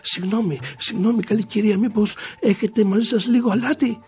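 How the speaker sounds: agitated polite pleading, climbing in pitch; frantic sailors. Acted. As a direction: ask around in a growing panic. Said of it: "αλαφιασμένοι κάτι ναύτες και μιλάγανε".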